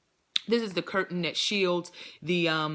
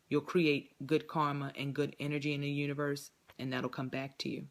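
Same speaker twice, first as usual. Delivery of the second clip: subdued, softer closing message; not upbeat; 2 semitones lower, 3 dB quieter than usual. Real, not acted. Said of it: "my voice isn't as upbeat".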